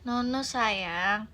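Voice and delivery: soft coaxing mother; gentle mother. Acted. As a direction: soothe the toddler to sit. Gentle mother calms toddler. (ibu lembut membujuk balita)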